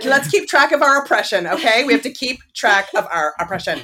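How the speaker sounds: loud, high mock rally cry; roaring rallying speech. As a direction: rouse the ladies, hammed up.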